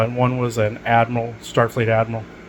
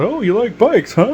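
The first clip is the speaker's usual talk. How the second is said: imitated bikers; 11 semitones higher, 5 dB louder than usual. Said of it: "and they were".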